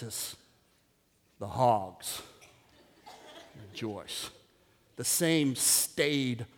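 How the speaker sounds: low, hushed, halting delivery; mock joyless deadpan. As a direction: drop into a lifeless, unimpressed murmur. Deadpan portrait of joyless consumers.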